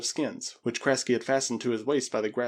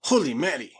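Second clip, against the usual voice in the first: loud, raised astonishment; exclamation; 4 semitones higher, 5 dB louder than usual. A narrator's reading. Spaniard sees the sparkling stones, amazed exclamation. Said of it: "exclaimed the Spaniard".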